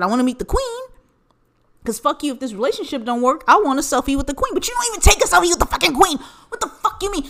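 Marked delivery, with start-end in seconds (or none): 4.5-7.2 fast, high, laughing through the words; cracking up in disbelief. Real, not acted. Ranting about a selfie with the queen, laughing.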